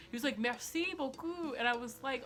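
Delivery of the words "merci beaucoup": slow, high, lightly French "Merci beaucoup"; French accent. Retold or imitated. French crush thanking her slowly, light French accent. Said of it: "How do you speak French?".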